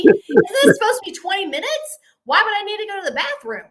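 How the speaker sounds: high, loud, rapid-fire questioning; openly alarmed disbelief. Retold or imitated. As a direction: blurt out the disbelief you held inside. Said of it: "everything I'm expressing to you right now".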